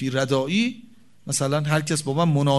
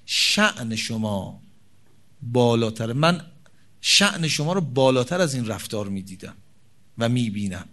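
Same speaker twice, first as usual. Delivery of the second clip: tender plea to husband; 4 semitones lower than usual. Shown as a demonstration. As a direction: plead gently, honoring him. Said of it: "بگه".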